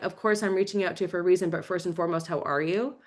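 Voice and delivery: quiet, unhurried how are you; gentle caring opener. Retold or imitated. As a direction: ease in softly, caring first. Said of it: "just come in with, like".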